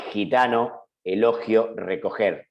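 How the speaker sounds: "Gitano, elogio, recoger" with raspy Spanish J sound for G; fricative G. Shown as a demonstration. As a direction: say each G as a voiceless velar fricative. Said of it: "velar y sordo, que es como la X".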